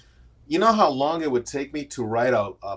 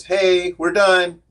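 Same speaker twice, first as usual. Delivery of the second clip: a boss's blunt notice, higher and louder; curt boss; 7 semitones higher, 8 dB louder, much slower than usual. Retold or imitated. Retelling the boss ending his job, mock curt. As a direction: bark out the layoff like the boss.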